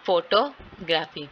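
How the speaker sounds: "फोटोग्राफी" slowly split as फोटो, ग्राफी; slow two-part PHOTO-graphy for "फोटोग्राफी"; syllable breakdown. Shown as a demonstration. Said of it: "वो primary syllable है".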